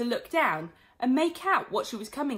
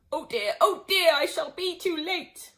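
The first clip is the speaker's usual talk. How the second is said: high, anxious wailing rabbit; high worried rabbit crying oh dear; fretting rabbit; 7 semitones higher, 5 dB louder than usual. A narrator's reading. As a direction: wail it like a panicked late rabbit.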